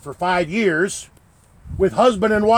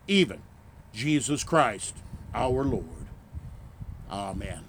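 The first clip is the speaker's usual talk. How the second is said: prayer; 2 semitones lower than usual. Acted. Closing collect prayer.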